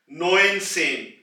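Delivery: "नोइन सेन" drawn out slowly, नोइन first; careful teacher model "नोइन सेन"; slow, clear "नोइन सेन" for learners; slow demo of neunzehn. Shown as a demonstration. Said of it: "नोइन की आवाज यानी कि नौ की आवाज".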